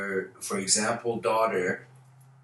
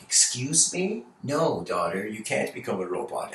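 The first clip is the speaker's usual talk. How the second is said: stern father; 3 dB quieter than usual. Retold or imitated. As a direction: put your foot down as the father. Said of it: "the father's like".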